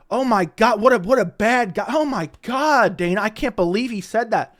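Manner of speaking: mock outrage.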